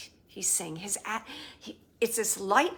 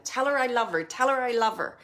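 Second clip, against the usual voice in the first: forceful; 4 dB louder, faster than usual. Retold or imitated. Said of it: "it's very forceful the way that they're saying".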